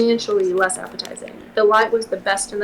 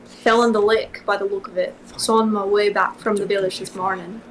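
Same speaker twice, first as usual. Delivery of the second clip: put-on Scottish accent. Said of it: "Scottish accent".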